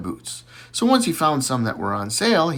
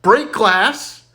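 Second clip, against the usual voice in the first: much higher, slow hammed-up reply; Johnny's punchline; 12 semitones higher, 4 dB louder, slower than usual. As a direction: stretch out the punchline high and slow.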